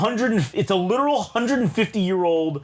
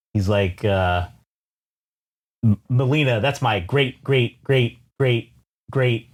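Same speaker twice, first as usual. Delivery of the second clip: put-on old shaman voice; 6 semitones lower than usual. Voicing old shaman in story.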